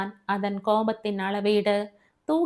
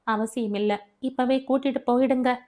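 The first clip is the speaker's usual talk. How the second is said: merciless, cold; 3 semitones higher, faster than usual. Acted. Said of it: "கருணையே இல்லாமல் சொன்னாள்".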